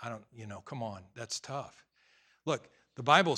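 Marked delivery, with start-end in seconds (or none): 0.1-1.8 mock reluctance. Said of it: "You say".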